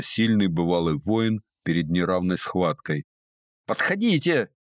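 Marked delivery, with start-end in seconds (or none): 3.7-4.5 very high, hysterical squeal; hysterical shriek. A narrator's reading. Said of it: "истерично взвизгнула она". (истеричный визг, очень высоко)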